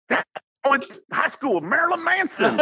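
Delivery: high, laughing sheepish excuse; laughing through excuse. Retold or imitated. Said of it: "I said".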